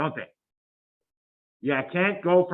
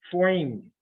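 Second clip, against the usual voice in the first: "formed" as "foimed", New York style; New York accent. Pretend. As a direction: put a touch of old New York on "formed". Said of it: "that's a New York accent".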